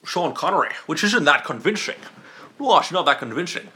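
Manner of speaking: Scottish accent, a rough impression; unconvincing Scottish movie-star accent; Sean Connery. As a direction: put on a Scottish film star's accent. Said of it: "The only Scottish I can do is Sean Connery".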